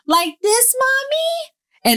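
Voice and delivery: put-on high little girl asking, rising; toddler voice. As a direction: voice a tiny toddler asking Mommy. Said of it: "She'll say".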